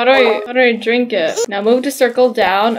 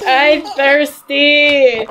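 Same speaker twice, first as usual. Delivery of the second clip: mock tantrum; much slower than usual. Toddler tantrum over milk.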